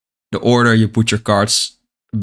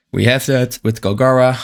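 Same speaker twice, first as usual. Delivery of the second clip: talking through hiccups; words broken by hiccups. Real, not acted. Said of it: "Sorry, I get the hiccups".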